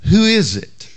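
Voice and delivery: squawked parrot call. Retold or imitated. Pastor telling a joke, as the parrot squawking. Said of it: "could only say one thing".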